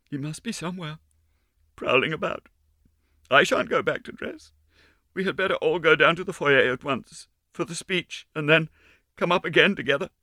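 put-on high, hushed scared child; frightened little girl. A narrator's reading. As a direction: urge them down nervously.

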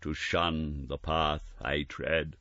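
slow, measured ghostly voice; a hint of solemn prophecy; slow grave spirit. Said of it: "said the ghost".

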